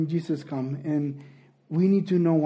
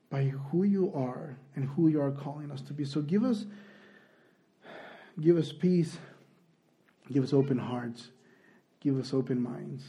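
softer, earnest prayer with pauses; 6 dB quieter than usual. Real, not acted. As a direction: pray quietly, phrase by phrase. Leads a prayer.

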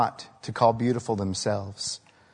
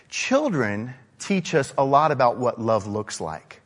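normal talking voice

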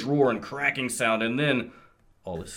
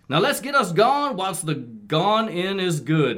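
Blaster voice; 6 semitones higher than usual. Acted. Voicing Blaster, stumbling on line.

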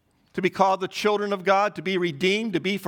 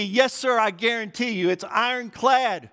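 emphatic vouching; 3 semitones higher than usual. Retold or imitated. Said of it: "he was so emphatic".

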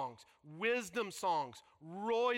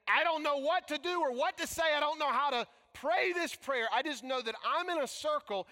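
desperate plea; 3 semitones higher, 3 dB louder than usual. Acted. Voicing Asaph's desperate plea.

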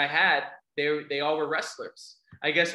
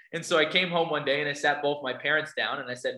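normal talking voice

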